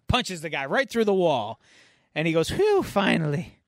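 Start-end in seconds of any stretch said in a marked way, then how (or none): 2.5-3.6 slow, mildly relieved exhale; acted relief. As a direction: let out pent-up tension. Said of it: "He was all pent up".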